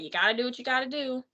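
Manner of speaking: fast, mocking gnome impression; stupid annoying voice. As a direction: toss it off quickly like a silly, annoying gnome. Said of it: "in this stupid, annoying voice".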